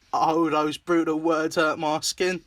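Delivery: put-on cartoon character voice; Clarence impression. Quoting a favourite character's hurt line in a put-on voice. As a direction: lightly imitate a wounded cartoon character. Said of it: "I fucking love Clarence".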